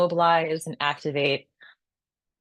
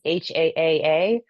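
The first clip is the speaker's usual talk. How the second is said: long open haaa breath; drawn-out haaa. Shown as a demonstration. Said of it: "The heart sound is".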